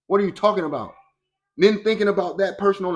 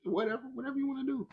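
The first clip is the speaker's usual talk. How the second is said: lazy, careless Faith; 10 semitones higher, 6 dB quieter than usual. Acted. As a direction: play Faith as a bored slacker shrugging it off. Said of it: "Faith is like".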